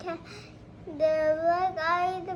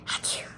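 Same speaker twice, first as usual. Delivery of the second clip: sneeze; 3 dB quieter than usual. Acted. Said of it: "before he could cover his shoe".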